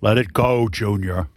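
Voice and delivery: low Scottish movie-father impression; Sean Connery. Film father telling Junior to let go, Scottish accent impression. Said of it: "I'm just going all Sean Connery".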